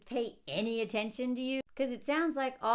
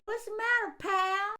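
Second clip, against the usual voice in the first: higher, coaxing dad voice; gentle dad; 10 semitones higher, 3 dB louder than usual. Retold or imitated. Father asking his screaming child what's wrong, coaxing. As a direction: soothe the kid.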